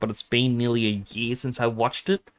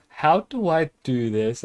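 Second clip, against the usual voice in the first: flustered; 4 semitones higher, slower than usual. Retold or imitated. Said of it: "I'm like".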